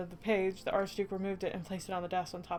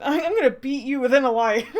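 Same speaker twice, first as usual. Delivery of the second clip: laughing threat; 5 semitones higher, 11 dB louder than usual. Real, not acted. Laughing threat after outburst.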